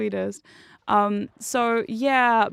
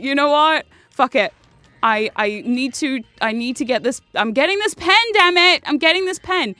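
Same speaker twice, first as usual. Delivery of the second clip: louder, fired-up resolve; determined; 2 semitones higher, 4 dB louder than usual. Retold or imitated. Mock-furious vow to confront the pharmacist, louder. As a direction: psych yourself up for a fight. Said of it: "give her a piece of my mind".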